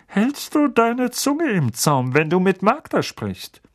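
slow, stern uncle voice. A narrator's reading. Uncle warning Harry about Magda, slow and stern. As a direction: spell out the order slowly. Vernon gives rules.

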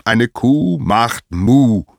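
loud, high, slow with drawn-out moo; angry mooing lesson; exasperated demonstration. Acted. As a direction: spell it out furiously for a fool. Apollo angrily imitates a cow.

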